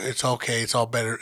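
soft soothing mom. Retold or imitated. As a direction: comfort a crying child. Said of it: "my mom's like".

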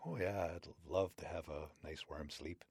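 soft pleased reply; wolverine delighted. Acted. Wolverine accepting the warm bed, soft pleased voice. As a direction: savor the thought of sleep.

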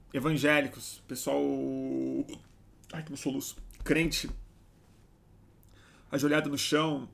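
hiccuping while talking; with hiccups. Real, not acted. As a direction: talk through hiccups. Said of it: "Nossa, tô com soluço".

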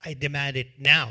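loud, hard demand; the creditor refuses and demands payment loudly; angry refusal. Acted. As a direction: refuse flatly and insist. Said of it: "And this guy says".

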